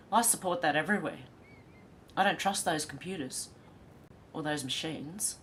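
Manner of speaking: nose whistling while talking. Real, not acted. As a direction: air whistling through the nose. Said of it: "if my nose is whistling".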